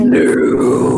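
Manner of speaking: mock seductive breathy voice; sexy voice. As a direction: say it sexy, half-joking. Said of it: "That was my sexy voice".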